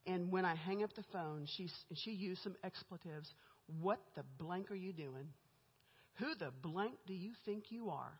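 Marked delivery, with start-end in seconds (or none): 3.8-8.1 Emma's controlled fury. Retold or imitated. Boss confronting her new recruiter after the call, understated fury. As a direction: retell the fury in measured, emphatic words, softly. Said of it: "she is just furious".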